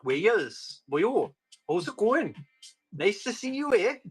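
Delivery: lilting Welsh, pitch swinging up; hammed-up Welsh greeting; Welsh accent. Shown as a demonstration. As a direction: put on a sing-song Welsh voice. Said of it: "Welsh is my favourite".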